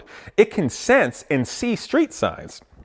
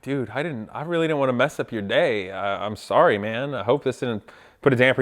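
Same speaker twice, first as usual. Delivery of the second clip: apologetic; 4 semitones lower, 5 dB quieter than usual. Retold or imitated. Retold apology to the friend.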